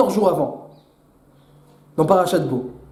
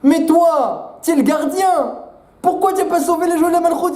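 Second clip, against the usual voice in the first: higher, turning the blame back; thief accusing the guard; 6 semitones higher than usual. Acted. The thief turns on the guard, higher and accusing. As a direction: accuse him right back. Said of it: "Il dit le voleur au gardien".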